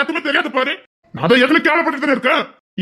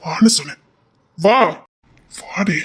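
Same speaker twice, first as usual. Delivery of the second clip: hushed, unvoiced order; whispered command; 4 semitones lower, slower than usual. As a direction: hiss it under your breath. Quiet command to come.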